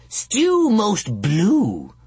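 very high crone squeal; shrieking witch. A narrator's reading. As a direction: squeal it like a hag. Witch sing-song.

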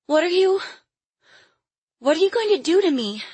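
put-on high, quick child's question; frightened little girl. A narrator's reading. Caged Lily questions her captor, frightened. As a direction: ask in a high, scared child's voice.

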